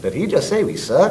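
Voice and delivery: put-on high, outraged Texas accent, slowing on the repeat; incredulous question in a broad Texas accent; heavy Texas accent. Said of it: "Very heavy Texas accent".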